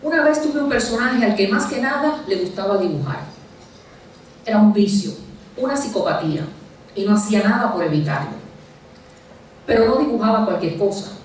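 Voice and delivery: measured literary reading with deliberate pauses between phrases; story narration. A narrator's reading. Author reading a short story about a stubborn character, measured narration. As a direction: read it out as a story, lifting phrase openings and dropping the endings.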